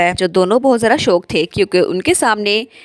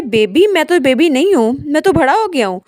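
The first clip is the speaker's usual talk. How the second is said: put-on indignant child shout; 5 semitones higher than usual. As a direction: yell it like an offended little kid. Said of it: "वो चिल्ला के कहता है". (बच्चा चिल्लाकर विरोध करता हुआ, ऊँची और तेज़ आवाज़ में)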